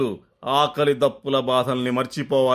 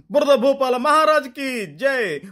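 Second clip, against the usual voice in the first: joyful cheer; 10 semitones higher than usual. Acted. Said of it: "ఆనందంతో పులకరించిపోయి".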